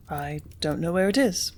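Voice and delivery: usual speaking voice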